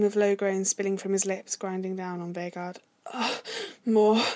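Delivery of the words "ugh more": moan, then a louder plea; urgent moan. A narrator's reading. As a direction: groan it out, rising in force. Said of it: "he moaned".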